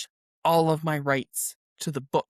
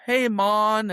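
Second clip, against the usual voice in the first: higher, imitated tourist Jamaican accent; fake Jamaican accent; 5 semitones higher, 3 dB louder than usual. Tourists greeting islanders in the Caribbean, mock Jamaican accent. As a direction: put on a hint of a cod Jamaican accent. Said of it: "this sort of weird Jamaican accent".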